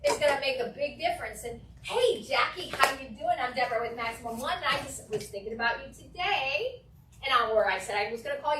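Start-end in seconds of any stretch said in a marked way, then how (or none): 1.8-6.8 smiling phone voice. Shown as a demonstration. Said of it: "Also smiling".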